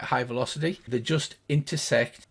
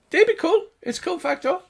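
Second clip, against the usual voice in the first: very high gnome, placating; calm a friend in a tiny high voice; gnomish voice; 5 dB louder than usual. Acted. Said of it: "And he's like".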